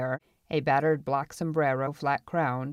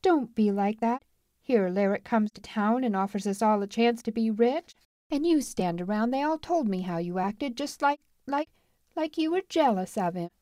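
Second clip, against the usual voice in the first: put-on higher-pitched girl's voice, scolding; exasperated, climbing higher as the reproach builds; impatient; 7 semitones higher than usual. A narrator's reading. Marla reproaches Lou for his coldness, impatient. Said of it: "she was impatient".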